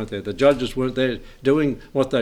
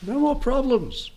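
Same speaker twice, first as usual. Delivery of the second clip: fervent preaching; 5 semitones higher than usual. Acted. Preaching heaven, rising fervor.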